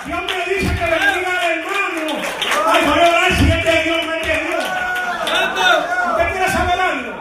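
high-pitched preacher mimicking hesitant believers; mocking preaching. Preacher acting out believers who keep praying over obvious duties, mocking.

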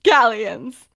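loud, stretched-out mock proclamation; not being quiet. Retelling him announcing his fortune to everyone, loud and unguarded. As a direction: draw out the huge figure, high and loud. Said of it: "he's not really being quiet".

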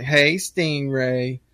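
slow, drawn-out hello; drawled mock flirtation; wife's greeting. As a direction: lightly imitate a flirty wife, stretching each word. Wife's greeting retold again.

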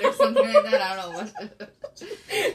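high mocking squeal. Mocking a teen pop fan.

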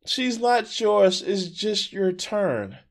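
slow, drawn-out mock repetition; mocking slow quote. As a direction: repeat it slowly, in disbelief. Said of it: "Wait, what?".

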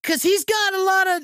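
loud, fast, angry comic celebrity impression; Gilbert Gottfried voice. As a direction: blurt it out loud like a cranky comedian. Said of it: "Gilbert Gottfried".

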